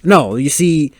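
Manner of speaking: playful angry warning at a movie character; mock angry. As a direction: tell off the driver on screen. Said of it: "easy to sound angry in any language".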